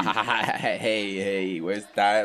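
put-on Canadian accent. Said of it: "It feels so good to be able to use my Canadian accent".

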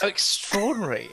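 put-on Southern accent. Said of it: "the speaker's amazing accent".

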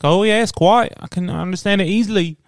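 high-pitched mock English accent. English friend answering on Xbox, imitated English accent. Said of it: "the English friends on Xbox from England".

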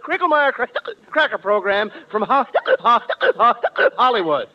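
lightly hammed announcer read; a hint of a pompous radio announcer; stagey old movie actor. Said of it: "get a load of this".

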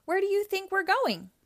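high, loud irritated retort; sarcastic snap. Acted. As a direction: bite back at Sonic in irritation. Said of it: "snapped Robotnik".

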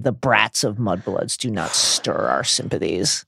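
slow, measured contempt; understated acted disdain; Yaxley spitting. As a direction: spit out each word slowly. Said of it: "spat Yaxley".

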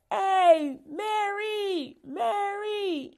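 loud high shout across the street; calling out. Retold or imitated. Calling a distracted friend by name, loud high shout. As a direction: yell her name to get her attention. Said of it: "you calling your friend".

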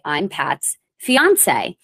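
slow, self-conscious introduction; awkward. Retold or imitated. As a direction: say it slowly, feeling awkward. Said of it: "I would just feel so awkward".

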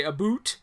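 "a boot" said with a long oo; jokey stereotype "a boot", oo as in food; mock Canadian vowel. Host quoting how people mock Canadians, mock Canadian vowel. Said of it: "jokingly, people say, they say".

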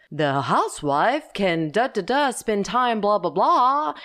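lightly imitated old-time ad pitch, swooping up and down; lilting mock commercial voice, skimming the script; old commercial announcer. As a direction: parody a vintage TV advert. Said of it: "go back to the commercials of the day".

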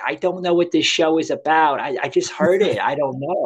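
put-on high, airy Jersey Italian-American girl; Jersey Italian accent. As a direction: mimic a clueless Jersey Shore Italian-American voice. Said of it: "that's how she talked, that Italian accent".

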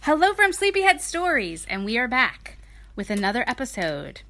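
upbeat show-host hello; bright announcer greeting. Shown as a demonstration. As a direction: call out the welcome like a host. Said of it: "redoing the show greeting".

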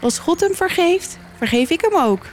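high, lightly voiced spirit woman; woman's voice from the water. A narrator's reading. The spirit in the water answers, lightly voiced high woman. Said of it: "hoort ze een vrouwenstem uit het water".

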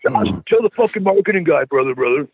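mock wrestler brushing off blame; Jake the Snake impression. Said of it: "I always used to tell Jake".

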